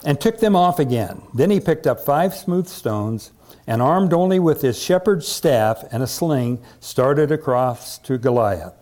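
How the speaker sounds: measured, emphatic Bible reading; dramatic story narration. A narrator's reading. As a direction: tell the story to a congregation with relish. Reads Bible story aloud.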